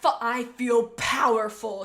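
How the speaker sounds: loud, slow, savoring the power; powerful boast. Acted. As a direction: Chaser boasts in a loud, slow voice after returning as a ghost. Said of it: "said Chaser".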